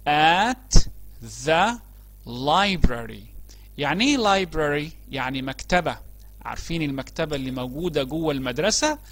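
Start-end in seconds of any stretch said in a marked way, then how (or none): 0.1-3.2 each word set apart, strong start; loud repeat. Shown as a demonstration. Teacher to pupils, title spelled out word by word, loud. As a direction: say the title aloud for the class to echo. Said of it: "نكرر مع بعض كده بصوت عالي".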